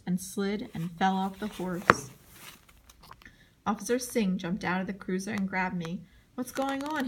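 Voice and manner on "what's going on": yelled question. A narrator's reading. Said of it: "he yelled".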